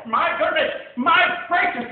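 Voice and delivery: high, loud astonished cries; amazed shout. Acted. Crowd sees the elephant bird, loud astonished shout. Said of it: "they shouted".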